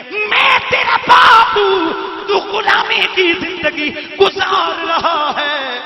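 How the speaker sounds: anguished cry. Acted. Father begging his son Zaid to come home, crying out high and loud.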